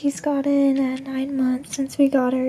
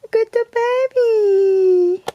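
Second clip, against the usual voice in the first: teary mom; 5 semitones higher, 5 dB louder, slower than usual. Real, not acted. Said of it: "I'm crying as mom here".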